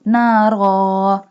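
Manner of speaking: "nara" with a heavy r and long held final aa; bold stopped ending. Shown as a demonstration. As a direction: stop on "nara", drawing out the last vowel. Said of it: "So we pronounce like nara". ("nara" said slowly, r full and rounded)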